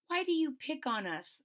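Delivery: quiet strength. Acted. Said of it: "with that quiet strength of hers".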